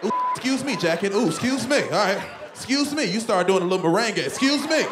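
high prissy excuse me; mock polite dodge. Dodging tacklers politely, high mock prissy voice. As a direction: squeal apologies while sidestepping.

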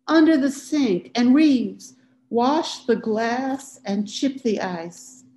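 loud, high call to the next room, slowing at the end; calling back. A narrator's reading. Wife calling instructions to husband in the kitchen, loud call. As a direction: shout the orders across the house.

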